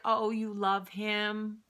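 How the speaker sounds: slow, high-pitched condescension; imitated grandmother's patronizing coo. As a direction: draw it out in mock wonder. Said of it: "So patronizing".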